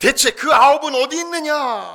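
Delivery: very high, very loud, indignant, wounded-outrage cry. Voicing Jesus in a Bible retelling: acting out hurt indignation. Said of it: "지금 우리 예수님도 굉장히 지금 섭섭해하고 계십니다".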